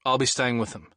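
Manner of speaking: firm and decided statement; emphatic. Acted. To the doctor about staying with Jules, firmly emphatic. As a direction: leave no room to argue. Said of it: "I stated emphatically".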